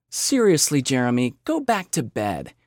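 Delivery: amused, dismissive mom; said through a wry smirk; wry amusement. Acted. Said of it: "his mother only chuckled ... wry smirk".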